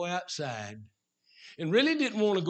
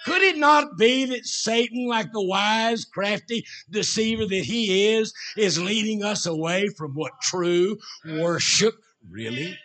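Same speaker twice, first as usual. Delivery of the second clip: raised, urgent pulpit questioning; fervent preaching; 4 semitones higher, 5 dB louder than usual. Real, not acted. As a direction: press the question on the congregation with a raised voice. Preaches at full force.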